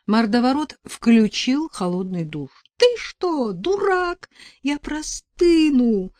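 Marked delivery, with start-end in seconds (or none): 2.8-6.1 high, slowed gasp of alarm; breathless gasp. A narrator's reading. Heroine under icy water gasping at the thug, high and breathless. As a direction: gasp it out in shock under the cold shower. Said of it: "только и смогла выдохнуть я".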